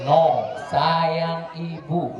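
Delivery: slow, drawn-out correction shouted on NO; correcting lyric. Shown as a demonstration. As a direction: stretch it, no lands hard. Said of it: "Sayang kamu?".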